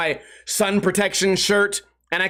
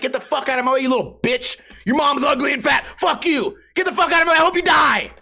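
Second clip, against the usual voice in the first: mock furious yell; 6 semitones higher than usual. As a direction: scream at a kid in fake rage. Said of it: "I don't really act like that".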